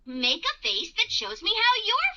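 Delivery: cheerful owl hoot into bouncy talk; sing-song happiness for little children; happy. Acted. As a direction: play a happy cartoon owl. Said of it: "I'm feeling happy".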